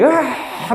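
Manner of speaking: a sudden high mock scream; high-pitched mock yell. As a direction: let out a sudden crazed yell, half-playful. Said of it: "내가 막 소리 질러".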